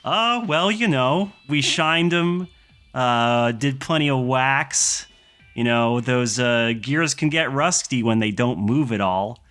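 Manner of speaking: high, upbeat greeting, rising into a high squeak; cheery mechanic Chip. Acted. Mechanic Chip greets the pilots cheerily, high and bright. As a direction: chirp a wake-up call at the pilots.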